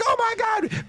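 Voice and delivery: very high excited squeal; starstruck bartender. Retold or imitated. Bartender recognizing the arriving comic, high-pitched excitement. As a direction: shriek like a thrilled fan. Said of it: "The bartender's like".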